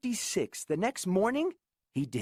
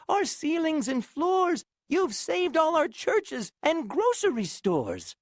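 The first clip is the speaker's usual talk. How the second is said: high small voice, eager; tiny grateful mayor; 8 semitones higher, 3 dB louder than usual. Acted. Mayor thanking Horton for saving the town, high and small. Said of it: "came the voice".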